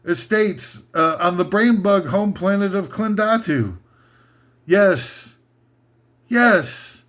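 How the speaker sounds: upbeat sci-fi real-estate commercial; mock ad read. Comic host reading a fake bug-planet estate ad, mock pitch. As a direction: pitch it like a glossy promo.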